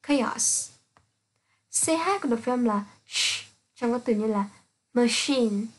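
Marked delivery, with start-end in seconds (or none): 0.1-0.7 "chaos" said slowly with a hard k at the start; slow k demo. Shown as a demonstration. Teacher showing students that "chaos" begins with a k. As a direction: drag out "chaos", opening it with a k. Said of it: "trong từ".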